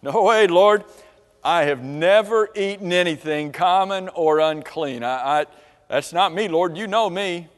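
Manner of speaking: mildly indignant objection to the Lord; proud refusal. Acted. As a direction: push back with wounded pride. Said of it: "a moment of pride".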